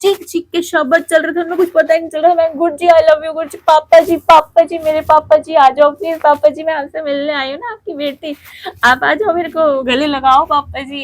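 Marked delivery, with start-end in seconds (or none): 2.6-11.0 retold tearful plea. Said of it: "इतने जोर जोर से मैंने बोल दी".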